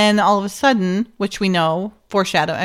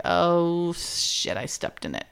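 quoting him; 4 semitones lower, 10 dB quieter, slower than usual. Retold or imitated. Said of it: "And he's like".

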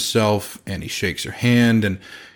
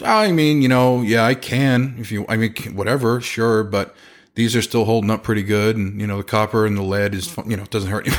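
cavalier. Retold or imitated. Careless second contractor waving off the homeowner, mock cavalier. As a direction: toss off every worry like it's nothing. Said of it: "very cavalier, very not servicing at all".

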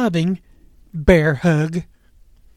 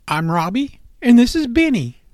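big smile; 6 semitones higher, 3 dB louder than usual. A narrator's reading. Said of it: "Robbie said with a big smile".

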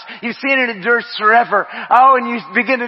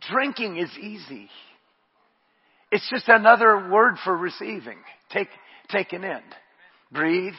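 calm them into receiving; gentle worship-leader murmur; hushed ministry; 8 dB quieter than usual. Acted. Soft prayerful ministry.

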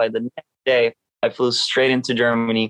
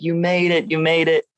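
higher-pitched imitation of cheering rivals; raised-pitch celebratory call, lightly acted; retold cheering; 5 semitones higher than usual. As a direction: mimic a team's cheer at normal volume.

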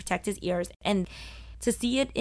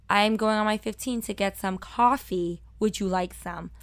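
put-on careful, enunciated standard American accent; accent hidden. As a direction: hide the Brooklyn accent, "coffee" as "cahfee". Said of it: "they made me lose it".

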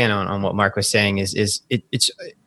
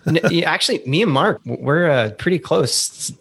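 laughing reply; 8 semitones higher than usual. Real, not acted. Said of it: "you sound a lot younger".

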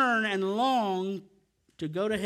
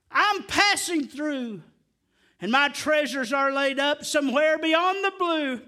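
choked up; 3 semitones higher, 3 dB louder than usual. Real, not acted. Recites hymn, overcome by emotion.

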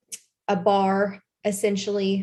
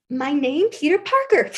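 put-on livid little boy; 4 semitones higher than usual. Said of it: "he is livid at this point".

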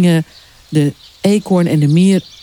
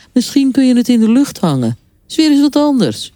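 lightly voiced higher-pitched crab; a hint of a chatty crab, pitched up; breezy sand crab; 6 semitones higher than usual. A narrator's reading. Sand crab offers his invention. (luchtige, iets hogere krabbenstem)

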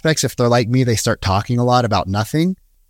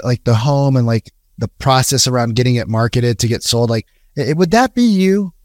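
very curious. Shown as a demonstration. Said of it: "you're coming from a very curious".

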